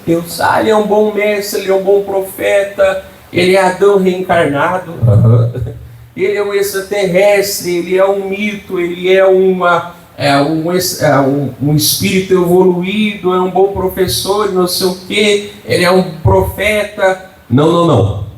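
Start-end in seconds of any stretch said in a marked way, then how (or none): 0.4-4.9 higher, lightly mocking voice of a believer from another religion; mocking other religions. Pastor mimicking other religions' views of Jesus, higher and mocking. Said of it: "tá cheio de religiões aí que até acreditam". 6.2-17.3 higher, lightly mocking voice of a believer from another religion; mocking other religions. Pastor mimicking other religions' views of Jesus, higher and mocking. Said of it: "tá cheio de religiões aí que até acreditam".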